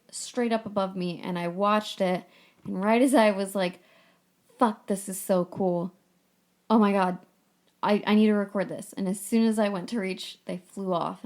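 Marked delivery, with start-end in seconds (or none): 4.6-8.9 excited. Retold or imitated. Excited quote of self seeing eagles.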